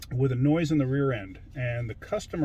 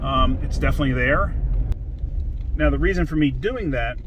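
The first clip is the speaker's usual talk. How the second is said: raised voice; 9 dB louder than usual. Real, not acted. Talking while driving the truck.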